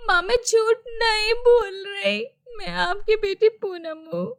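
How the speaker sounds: pleading through tears, voice breaking; tearful pleading. Acted. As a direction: beg your mother while crying. Daughter pleads after being thrown out.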